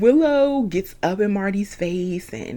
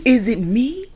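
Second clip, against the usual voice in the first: fake Marty voice; 4 semitones higher, faster than usual. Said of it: "That's my fake Marty voice".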